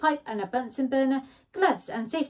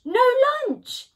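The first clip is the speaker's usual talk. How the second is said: curt refusal; 13 semitones higher, 7 dB louder than usual. Acted. Badger refuses.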